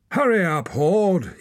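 very high, loud shriek of a yell; yelling woman. A narrator's reading. Woman in crowd yells at Hord, very high and loud. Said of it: "yelled a woman".

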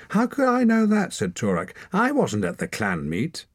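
put-on high, loud defensive boy; indignant protest. A narrator's reading. Torak protesting to the clan leader, high and loud. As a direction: push back hard.

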